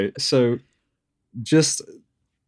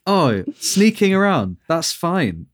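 mock carefree; 7 semitones higher, slower than usual. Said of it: "you're just like".

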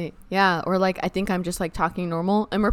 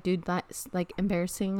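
retold sister; 3 semitones lower, 10 dB quieter than usual. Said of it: "my sister's like".

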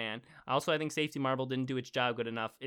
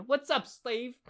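higher-pitched, goofy weird voice; 9 semitones higher, much slower than usual. Acted. Host reads out a listener's email greeting, in a weird voice. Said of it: "like, a weird voice".

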